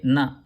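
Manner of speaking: "na" with the tongue on the teeth; dental na. Shown as a demonstration. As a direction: say "na" with the tongue tip against the teeth. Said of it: "tongue on the teeth".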